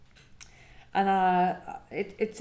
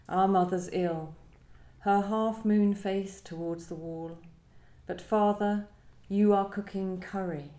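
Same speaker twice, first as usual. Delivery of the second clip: measured, unhurried reading of a poem. Acted. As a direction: read it out as you would at a poetry reading. Reads her own poem aloud.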